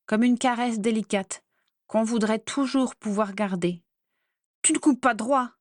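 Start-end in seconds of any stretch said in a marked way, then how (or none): 4.6-5.5 a yelped, raised accusation; sharp yelp. A narrator's reading. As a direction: snap it out like a sudden yelp. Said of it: "glapit Bellatrix".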